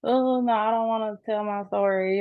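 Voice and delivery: a hint of fearful reluctance; fearful inner voice. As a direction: voice the scared part of you that wants to hide. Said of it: "I'm so afraid of speaking".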